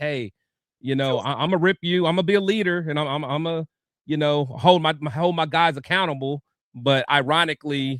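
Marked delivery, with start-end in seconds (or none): none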